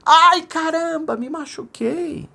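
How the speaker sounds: very high, slow echo of "Ai, caramba, me machuquei"; distant echo. Acted. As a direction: call it back from far off, drawn out. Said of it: "escutou lá de fundo assim".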